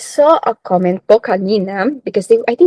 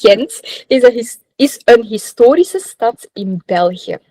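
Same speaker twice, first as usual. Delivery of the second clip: Ghent sentence in a Dutch accent, a bit louder; 3 dB louder than usual. Shown as a demonstration. Radio host teaching listeners a Dutch phrase in a Dutch accent. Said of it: "so really with that Dutch accent".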